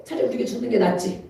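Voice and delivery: flat resigned "차라리 우리가 죽는 게 낫지" with falling tune; resigned statement. Shown as a demonstration. Preacher voicing timid disciples, resigned and falling. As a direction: shrug it off as settled. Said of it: "그게 낫습니까?".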